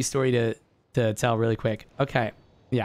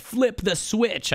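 mock scream; 9 semitones higher, much slower than usual. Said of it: "I, like, screamed it".

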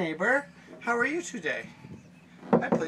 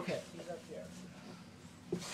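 slow hushed whisper; 17 dB quieter, much slower than usual. Real, not acted.

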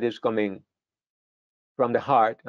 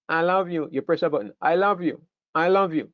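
doll voice; 3 semitones higher than usual. Retold or imitated. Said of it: "It's like having a doll".

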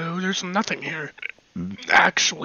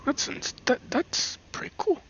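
whispering; 7 semitones higher, 5 dB quieter than usual. Real, not acted. Admiring under breath.

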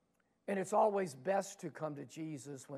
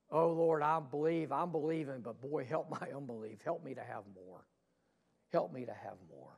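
mild pleading prayer; 3 semitones lower than usual. Acted. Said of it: "he loves it when we cry".

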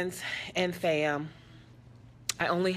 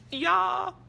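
choked up; 13 semitones higher, 4 dB louder than usual. Real, not acted. Overcome by the girl's news.

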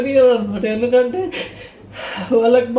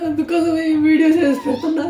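laughing through tears; 5 semitones higher than usual. Real, not acted.

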